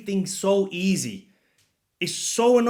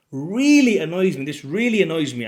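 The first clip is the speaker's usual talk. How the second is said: raised, louder, exasperated complaint; real annoyance; 6 dB louder than usual. Real, not acted. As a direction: let the irritation push the voice up. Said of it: "As you can tell in my voice and my, my demeanor".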